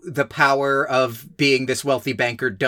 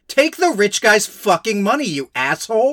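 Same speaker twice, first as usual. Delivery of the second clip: exasperated retort; 6 semitones higher than usual. Retold or imitated. Exasperated retort to Grandpa's refusal.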